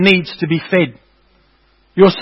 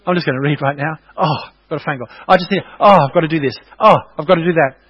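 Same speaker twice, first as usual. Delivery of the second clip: distracted believer. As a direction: mimic someone pulled away from reading. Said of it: "Anyone ever experienced that?".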